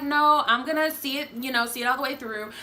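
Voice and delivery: decide it with spirit; determined. Retold or imitated. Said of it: "I decided to".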